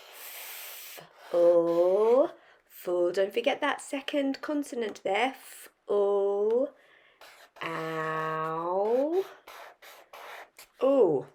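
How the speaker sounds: segment flower, F, o, full, F, o, ow; teacher sounding out "flower" for spelling. Shown as a demonstration. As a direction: sound out "flower" letter by letter with pauses. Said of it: "saying the sounds as you write it".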